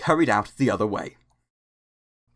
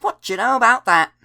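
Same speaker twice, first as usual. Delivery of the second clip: higher and louder teasing exclaim; 11 semitones higher, 7 dB louder, faster than usual. Acted. Percy to Toby about Thomas, teasing exclaim. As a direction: crow it out in mock amazement. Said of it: "he exclaimed".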